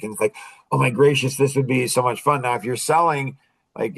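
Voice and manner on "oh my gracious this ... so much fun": mildly energetic, eager lift; a light burst of enthusiasm; excited. Shown as a demonstration. Pitching to an expressive buyer, mildly excited. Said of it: "get excited and energetic".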